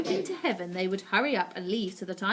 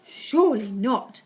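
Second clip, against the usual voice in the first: shouting; 8 dB louder than usual. Acted. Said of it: "the others shouted".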